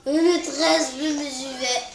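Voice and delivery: tired voice. Shown as a demonstration. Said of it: "je parlais un peu comme ça".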